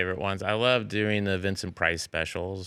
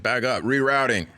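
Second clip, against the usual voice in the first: louder dude navigation voice; Californian GPS voice; 5 semitones higher, 4 dB louder than usual. Pretend. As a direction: stoner GPS rerouting. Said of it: "your Californian's voice".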